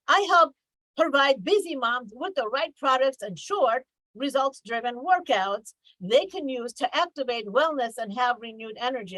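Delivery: overly polished sales read, hammed-up; stiff sales pitch. Shown as a demonstration. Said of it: "too commercial and not enough, uh, conversational".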